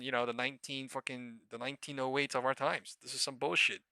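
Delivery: normal talking voice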